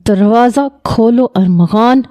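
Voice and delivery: a mild mock roar at the door; understated angry call through a door; roaring demand. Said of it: "Shariq کی چنگاڑتی ہوئی آواز آئی".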